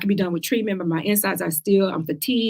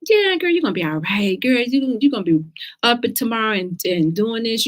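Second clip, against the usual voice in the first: a hint of an over-bright gushing friend, pitched higher; mock cheery friend; 4 semitones higher than usual. Imitating a friend brushing off a cancer diagnosis, mock upbeat. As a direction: gush "girl" like a too-positive pal. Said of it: "do not appear so positive or light".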